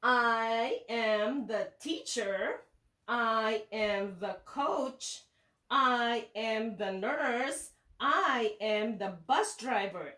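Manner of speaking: put-on each word spaced for children to repeat; slow read-along. Shown as a demonstration. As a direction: read it slowly so they can follow. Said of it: "It says".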